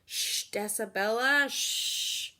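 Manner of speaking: a hint of a hushing adult; lightly voiced scold, half whispered; hushing grown-up.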